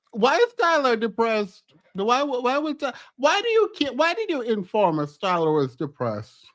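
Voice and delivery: rising, disbelieving questions; stunned at what she hears; incredulous. Real, not acted.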